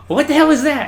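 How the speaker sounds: very loud, high mock reprimand; hard chief's yell. Chief to recruit who can't march, mock angry yell. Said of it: "our chief was trying to be hard on him".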